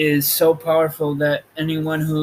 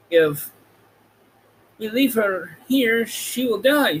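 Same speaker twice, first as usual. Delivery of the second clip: Lion voice; 7 semitones higher than usual. A narrator's reading. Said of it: "said the Lion".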